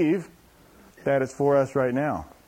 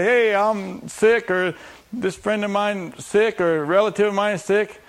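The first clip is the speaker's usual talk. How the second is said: mock timid caller; 6 semitones higher, 3 dB louder, slower than usual. Mimicking timid phone requests.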